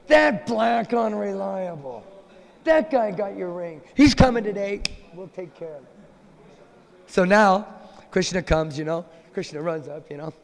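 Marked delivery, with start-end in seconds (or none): 0.1-5.9 a lightly voiced conspiring friend; Lalita. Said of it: "Lalita goes".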